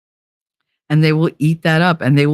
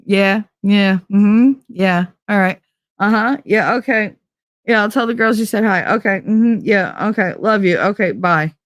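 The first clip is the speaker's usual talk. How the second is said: higher, detached run of yeahs; unloving brush-off; 5 semitones higher than usual. Retold or imitated. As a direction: rattle off the yeahs like reading the phone book. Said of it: "in such an unloving fucking way".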